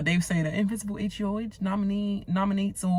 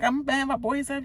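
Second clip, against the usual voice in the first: mock whine; 9 semitones higher than usual. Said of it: "she was like".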